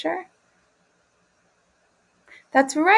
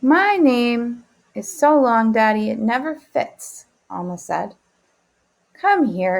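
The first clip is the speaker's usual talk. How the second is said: expressive read-aloud for the class; reading to children; slower than usual. Acted. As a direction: read the story slowly and warmly to kids. Teacher reads picture book aloud.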